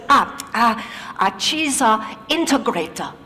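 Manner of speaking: put-on Japanese accent. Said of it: "he says".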